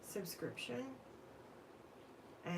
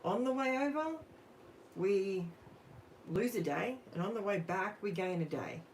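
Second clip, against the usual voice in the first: mock explaining to kids; 3 semitones higher than usual. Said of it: "And I'm like".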